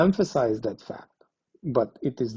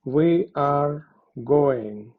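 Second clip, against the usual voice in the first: enthusiastic; much slower than usual. Shown as a demonstration.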